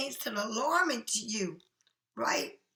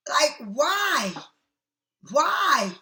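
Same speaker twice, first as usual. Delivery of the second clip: rising, louder exasperated why; 5 dB louder, much slower than usual. Real, not acted. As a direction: throw up your hands and demand why, louder each time. Exasperated at hoarded clutter.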